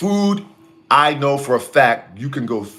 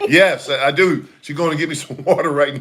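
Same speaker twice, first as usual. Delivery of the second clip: laughing; 4 semitones higher than usual. Real, not acted. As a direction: answer through a laugh. Laughing answer.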